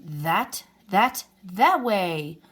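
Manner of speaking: slow, stammering and trembling with fright; a scared passerby stutters out directions; quivering fear. A narrator's reading. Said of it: "pointed the quivering man".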